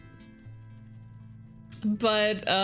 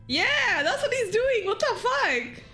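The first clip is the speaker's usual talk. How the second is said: laughing; 13 semitones higher, slower than usual. Real, not acted. Character spins knife oddly.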